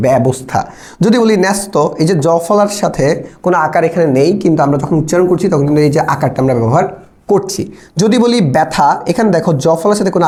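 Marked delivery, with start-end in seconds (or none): 0.1-0.6 ব্যবস্থা with an open "æ" after the first ব; vocale "æ" aggiunta. Shown as a demonstration. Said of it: "আকার ব্যবহার করতেছি". 8.6-8.9 ব্যথা with an open "bæ" at the start; open "æ" vowel. Shown as a demonstration. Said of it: "উচ্চারণ করার সময় আমরা কিন্তু আকার ব্যবহার করছি".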